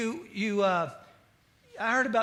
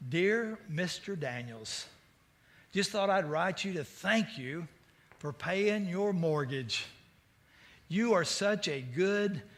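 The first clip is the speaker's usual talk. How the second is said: mock sweet letter. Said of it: "the mortgage company goes".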